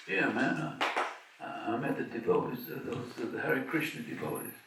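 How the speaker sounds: a light Bronx street voice; Bronx accent. Retold or imitated. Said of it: "with a Bronx accent".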